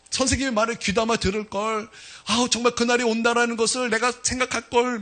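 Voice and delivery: high-pitched rueful "if only" lament; retold regretful lament. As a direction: wail with regret, without real tears. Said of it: "막 껄껄 그러면서 그냥 껄껄 울었어요". (후회하며 한탄하듯)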